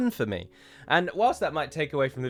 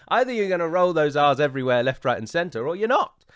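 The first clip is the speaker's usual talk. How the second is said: higher-pitched, indignant protest; exasperated complaint; 4 semitones higher, 4 dB louder than usual. Acted. Complaining to Amazon about double standards, exasperated. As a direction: protest the inconsistency with raised pitch.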